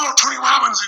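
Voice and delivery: imitating a starstruck store clerk, high-pitched; excited fan. Store clerk recognising a famous customer, excited. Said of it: "the guy was all excited".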